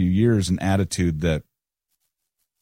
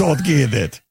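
higher, mock Kansas accent impression; John Senior's Kansas accent; 6 semitones higher, slower than usual. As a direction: play a Kansas preacher's accent for fun. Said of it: "that's his Kansas accent".

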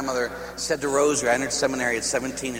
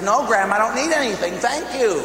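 higher, louder, insisting no; insistent refusal; 9 semitones higher, 5 dB louder than usual. Retold or imitated. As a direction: push back harder, voice climbing. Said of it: "she pushed the guy and says".

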